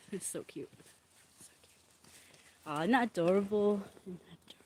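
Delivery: unvoiced whisper of delight. Real, not acted. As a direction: whisper it so the cat stays calm. Whispering about cat.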